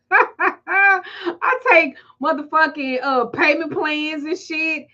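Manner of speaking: laughing through the words, slowed; laughing while ranting. Real, not acted. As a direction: giggles breaking into the line. Laughing mid-rant about payments.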